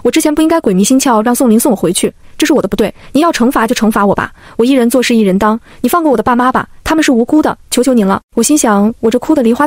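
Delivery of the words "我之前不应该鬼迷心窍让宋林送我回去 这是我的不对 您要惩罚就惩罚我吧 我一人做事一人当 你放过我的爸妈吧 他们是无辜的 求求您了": mildly tearful, put-on begging; tearful pleading. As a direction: plead with a touch of tears. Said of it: "我声泪俱下地朝着余清舟说道". (略带哭腔地求饶)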